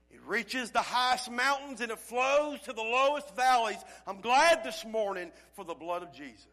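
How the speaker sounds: fervent, full-voiced preaching; yelling. Real, not acted. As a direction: proclaim it with force to the congregation. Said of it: "That's why I'm yelling".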